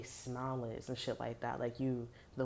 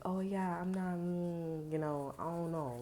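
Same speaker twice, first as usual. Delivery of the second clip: higher-pitched, drawn-out noncommittal reply; stalling and hedging, lightly acted; mock evasive; 4 semitones higher, slower than usual. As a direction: imitate someone dodging, dragging out the hum. Acting out someone being evasive.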